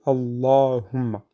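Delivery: Allahumma drawn out with a heavy L; full Allah, slowly. Shown as a demonstration. Teacher showing the exception in the word Allah, slow heavy Allahumma. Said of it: "Donc, Allahu".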